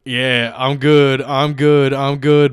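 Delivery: mock boasting. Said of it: "post a video of yourself saying".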